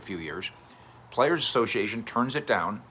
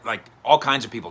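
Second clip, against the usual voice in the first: usual speaking voice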